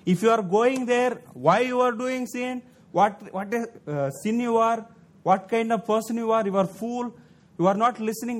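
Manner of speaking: a touch of a hectoring preacher; mock scolding. Shown as a demonstration. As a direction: scold a sinner sharply, half acted. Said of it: "It's like scolding people".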